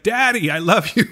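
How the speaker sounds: high little creature voice; a high, eager creature's coo. Retold or imitated. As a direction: squeak it like a tiny creature. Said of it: "starts strangling one of them".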